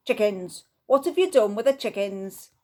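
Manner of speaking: loud, exasperated demand; angry demand. Acted. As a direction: demand an answer from the Viking. Mr Ellis hauls Viking up.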